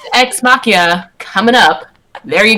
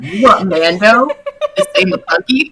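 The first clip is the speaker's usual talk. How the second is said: laughing; slower than usual. Retold or imitated. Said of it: "Filoni's face is just like".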